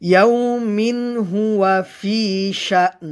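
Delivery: slow chant, "ইয়াউমিন" ending in a clear n without humming; clear izhar. Shown as a demonstration. Teacher showing learners "ইয়াউমিন" with a clear, unhummed n. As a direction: sound the n of "ইয়াউমিন" cleanly before "হুয়া". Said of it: "গুন্না ছাড়া স্পষ্ট করে পড়তে হবে".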